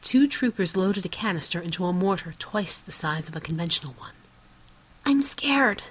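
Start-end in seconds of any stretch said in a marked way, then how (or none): 5.0-5.8 put-on high-pitched scared little girl; small, nasal child voice with American English. A narrator's reading. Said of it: "the girl said in nasal Americanized English".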